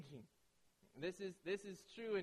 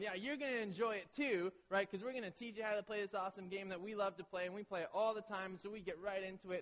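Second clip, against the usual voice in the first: eager hype; 4 semitones higher than usual. Retold or imitated. Family hyping up the new player.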